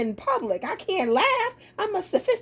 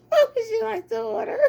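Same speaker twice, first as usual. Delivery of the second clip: stifled laughter; 3 semitones higher than usual. Real, not acted. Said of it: "trying not to bust out".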